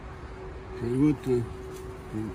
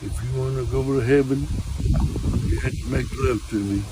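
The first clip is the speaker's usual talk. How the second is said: lightly voiced God, a little lower; measured, lowered voice playing at divine authority; mock God; 3 semitones lower than usual. Fake God addresses praying nun.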